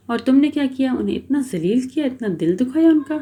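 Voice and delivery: flaring at her. Acted. Iqra scolding Muskan for hurting Ryan, mildly heated. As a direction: scold her friend with mild heat. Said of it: "بھڑکنا شروع کر دیا".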